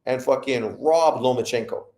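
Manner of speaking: lightly voiced mocking boxing fan. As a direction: sneer it like a starstruck fan. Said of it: "As if".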